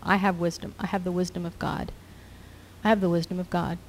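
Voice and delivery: soft repeated murmur; quietly affirming faith over and over; muttered declaration. Shown as a demonstration. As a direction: murmur it to yourself like a mantra. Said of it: "muttering to yourself".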